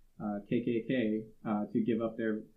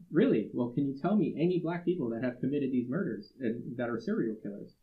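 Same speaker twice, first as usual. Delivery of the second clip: incredulous challenge; 3 semitones higher than usual. Retold or imitated. Daryl challenging the Klansman.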